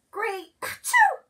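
high, slow word broken by a loud sneeze; sick groundhog sneezing mid-word. Acted. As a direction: sneeze right through it. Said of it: "said Groundhog with a sneeze".

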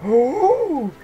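high, loud rising "ooh"; delighted squeal of an ooh; excited ooh. Real, not acted. Player thrilled by new swag in the game, excited ooh.

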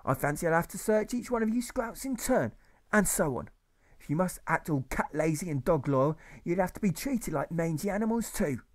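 a pompous master berating his class; ranting old schoolmaster. Acted. Old teacher berating the pupils, ranting high voice.

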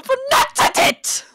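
rising into an angry high finish; indignant outburst; exasperated rant. Acted. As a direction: let the temper break out at the end. Rant about being told calm.

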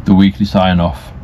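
slow, drowsy, drifting words; nodding off. Real, not acted. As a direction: talk slowly as if dozing off. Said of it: "falling asleep".

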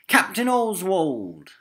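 high, slow call across the deck; shout. Acted. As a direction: call out to the captain. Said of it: "shouted Chino".

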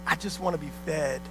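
low, soft imitation of a complainer; hushed, understated retold grumble; mock meek complaint. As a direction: mimic a small, subdued plea. Imitates the complaining church member.

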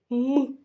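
"м" alone as a hard hum; hard consonant sound. Shown as a demonstration. Teacher gives children the first sound, hard "м". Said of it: "це звук твердий".

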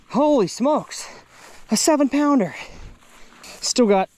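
high-pitched "Holy smokes" and "seven pounder"; amazed exclamation. Real, not acted. Angler marvelling at the released bass, amazed. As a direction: still buzzing from the catch. Recalling the catch's size.

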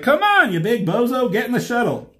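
high, loud urging; straining Hot Rod. Retold or imitated. Hot Rod hauling Grimlock into the shuttle, high loud urging. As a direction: heave and coax at once.

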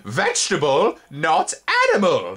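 high, loud trilling irritation; irritated insect chorus. A narrator's reading. Spindlebugs crying together, high irritated chorus. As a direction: chant it together, annoyed. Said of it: "they all cried together and trilled with irritation".

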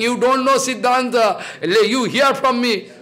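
a touch of lofty superiority, slowed; mock arrogant teacher talking down; lightly voiced know-it-all, slow and haughty; proud lecturing. Shown as a demonstration. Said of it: "Not this, humble attitude".

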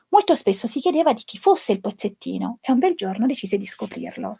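storybook narration for an audience of educators; story reading. A narrator's reading. Teacher reading Pezzettino to trainee educators, storybook narration. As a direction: read the tale gently, as to children. Teacher reads picture book aloud.

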